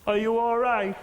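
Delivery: small, high-pitched voice from the back; little voice. Retold or imitated. Audience member at the back checking on the comic, little voice. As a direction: pipe up as a tiny mimicked voice. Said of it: "this little voice went".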